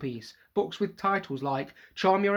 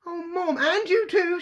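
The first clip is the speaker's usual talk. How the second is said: protesting; 7 dB louder, slower than usual. Acted. Son protesting, mother rebuking.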